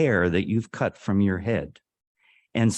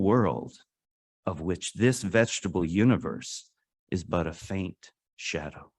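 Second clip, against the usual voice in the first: reciting a quote. Acted. Recites a poet's quote twice.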